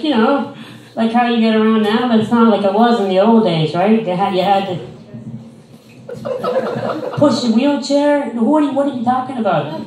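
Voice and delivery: mocking a patronizing old lady at the mall. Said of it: "He's like".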